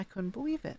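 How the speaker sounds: pitch climbing upward through "couldn't believe it". Repeating a phrase to show its intonation, rising pitch on couldn't believe it. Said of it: "See how it just like rises right there?".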